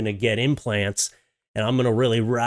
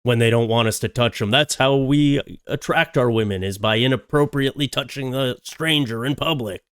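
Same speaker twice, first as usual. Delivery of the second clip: mock Canadian guy. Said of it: "he was like".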